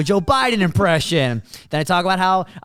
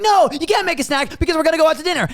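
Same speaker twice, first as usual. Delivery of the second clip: exasperated; 11 semitones higher than usual. Acted. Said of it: "And you're like".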